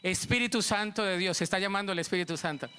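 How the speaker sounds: normal talking voice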